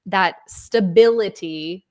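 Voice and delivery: "stability" drawn out for emphasis; stress on stability. Real, not acted. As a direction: lean slowly on the word "stability". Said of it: "emphasis on the stability".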